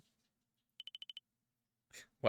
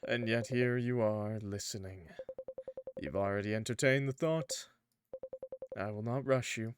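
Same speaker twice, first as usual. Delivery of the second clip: tempting dark entity. Acted.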